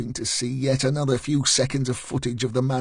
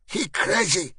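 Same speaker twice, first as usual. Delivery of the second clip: higher, shaken Eastern European voice; Eastern European accent; 8 semitones higher than usual. A narrator's reading. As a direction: ask nervously, accented. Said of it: "in an Eastern European accent".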